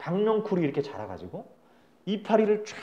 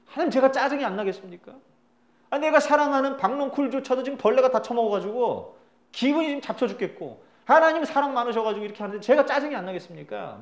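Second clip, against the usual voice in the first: loud, higher-pitched acted protest to God; crying out; 5 semitones higher, 4 dB louder than usual. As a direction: shout back in exasperation, as Jonah. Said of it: "막 외칩니다".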